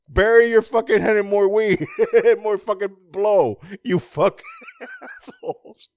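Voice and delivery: high silly voice breaking into laughs; laughing mock rant. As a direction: rant it while cracking up. Mocking villain rant, laughing.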